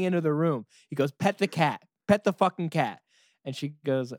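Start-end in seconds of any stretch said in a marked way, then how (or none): 1.1-3.0 loud, high insistent order; frantic demand. Retold or imitated. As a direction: act out a boy's frantic command. Boy frantically orders mom.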